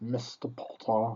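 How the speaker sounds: words breathed out in a whisper. Quoting the character just praised by the other speaker: Snape voice. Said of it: "Professor Snape was just an awesome character".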